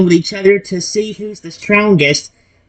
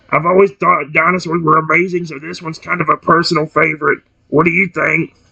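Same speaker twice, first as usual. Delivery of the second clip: friendly deep dinosaur voice, pitched lower; 3 semitones lower than usual. Reading a scene aloud, voicing a transformed T-Rex: deep friendly T-Rex voice. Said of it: "his voice deep but friendly".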